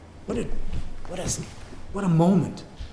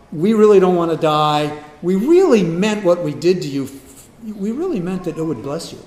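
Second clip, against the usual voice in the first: loud, stumbling excuses; mock fearful pleading; 6 dB louder than usual. Brothers oozing fear before Joseph, hammed-up pleading. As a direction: babble excuses, rising into louder pleading. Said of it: "they're just oozing fear".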